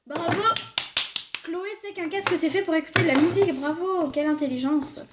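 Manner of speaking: petit bravo moqueur, un peu plus aigu; moquerie ironique. Acted. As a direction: se moquer gentiment de l'évidence, en applaudissant pour rire. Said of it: "Désolée, hein. Je suis excitée aujourd'hui". (ton ironique et taquin, voix un peu plus haute)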